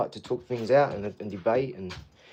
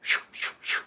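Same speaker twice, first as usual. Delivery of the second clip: imitating excited dog. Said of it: "She goes".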